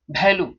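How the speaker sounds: "वैल्यू" begun with a bh sound; wrong pronunciation. Shown as a demonstration. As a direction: say "वैल्यू" as bhailu. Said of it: "ये वैल्यू नहीं होता है".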